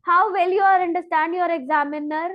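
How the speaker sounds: "how well you are understand your examiner" held up high, cut off unfinished at "examiner"; wrong intonation. Shown as a demonstration. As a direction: stop abruptly on "examiner" without bringing the tune down. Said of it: "तो मेरी intonation wrong चली गई".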